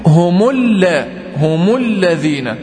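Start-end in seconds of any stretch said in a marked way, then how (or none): 1.4-2.6 هم linked as humu into الذين, slow; slow chanted recitation of هم الذين; tajweed demo. Shown as a demonstration. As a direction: draw out humu lladhina. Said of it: "خدوا بالكم كده".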